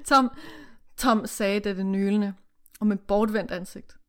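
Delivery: steady read-aloud narration with character lines; story reading. Acted. Reading the novel to the co-host, read-aloud narration.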